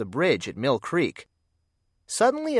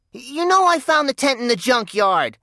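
squeaked; 11 semitones higher, 5 dB louder than usual. Acted. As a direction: squeak it out, much higher and louder. Clarence pleads with Bugs.

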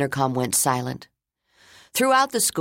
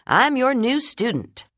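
put-on girl's voice; 10 semitones higher than usual. Girl introduces herself.

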